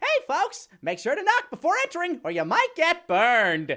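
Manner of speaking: very high, very loud, goofy little cartoon weasel voice. Voicing a mouth added to a cat for viewers, goofy little weasel voice. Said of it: "goofy little weasel voice to go along with it".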